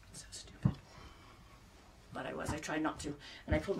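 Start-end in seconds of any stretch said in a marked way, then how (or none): 0.1-0.7 low, hushed self-mocking murmur; sheepish aside. Real, not acted. Vlogger admitting her silly mascara worry, sheepish aside. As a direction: say it small and low, almost to yourself.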